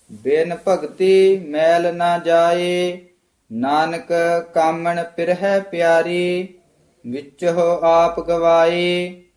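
scripture recitation. Shown as a demonstration. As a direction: recite steadily, holding the line endings. (ਠਹਿਰਾਅ ਵਾਲਾ ਗੁਰਬਾਣੀ ਪਾਠ)

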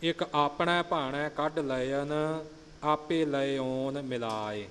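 careful verse demo with ਆਪਣੇ as aapne; slow recital, long first vowel in ਆਪਣੇ. Shown as a demonstration. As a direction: hold the opening aa of ਆਪਣੇ. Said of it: "ਇੱਥੇ ਕੰਨਾ ਲਿਖਿਆ ਹੈ".

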